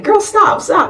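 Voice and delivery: high-pitched plea to stop; acting out a friend holding someone back; urgent restraining plea. Friend restraining her from fighting.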